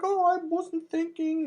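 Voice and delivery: high, slow, sheepish mock voice; the friend shrugging off his mistake in a high drawn voice. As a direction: drag it out like a caught fool. Friend's reply, voiced in story.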